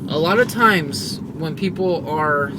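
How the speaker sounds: talking while driving over bumps; on a bumpy road. Real, not acted. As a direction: voice jolted by a bumpy ride. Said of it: "sorry for the bumpy road".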